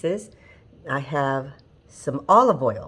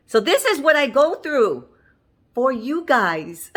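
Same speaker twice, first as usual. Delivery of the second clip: laughing; 8 semitones higher, 4 dB louder than usual. Real, not acted. Laughing about her injury.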